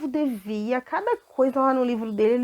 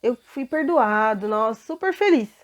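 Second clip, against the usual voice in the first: happy servant; 4 dB louder than usual. Acted. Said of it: "saiu todo contente".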